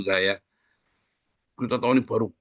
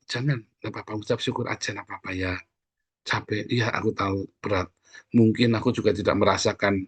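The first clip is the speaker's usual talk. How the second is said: gentle comfort; 3 semitones lower than usual. Retold or imitated. Pastor comforting a complaining friend.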